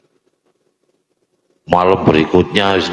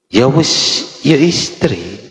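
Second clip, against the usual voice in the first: mock husband; 8 semitones higher than usual.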